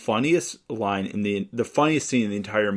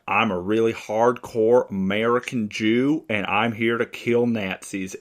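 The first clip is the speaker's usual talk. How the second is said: Southern drawl. Retold or imitated. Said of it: "Very heavy Southern drawl".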